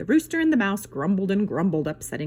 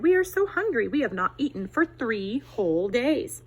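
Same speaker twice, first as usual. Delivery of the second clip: little foxes begging; 4 semitones higher than usual. Acted. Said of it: "they said".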